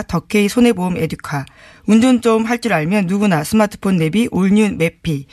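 crisp careful sponsor read; over enunciating. Shown as a demonstration. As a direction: read each word clearly and carefully. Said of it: "또박또박 읽어보겠습니다".

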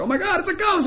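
high-pitched mock panic; freaking out. Disciples seeing Jesus walk on water, freaking out. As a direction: cry it out like a terrified disciple. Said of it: "and they're freaking out".

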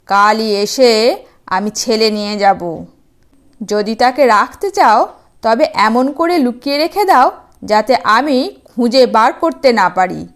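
threatening demon, only lightly voiced; a hint of a demon voice. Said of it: "সে বলছে". (হালকা দানবের গলা)

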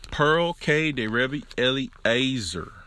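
slow country accent on the name. Real, not acted. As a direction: let the country accent slip out. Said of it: "There's my country accent again coming out".

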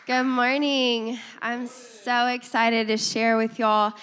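hoarse from a cold; rough, sick-sounding voice; raspy voice. Real, not acted. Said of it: "please excuse my raspy voice".

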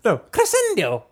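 high, dramatic villain cry; Voldemort. Retold or imitated. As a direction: insist like a dark wizard. Keeps the Voldemort bit going.

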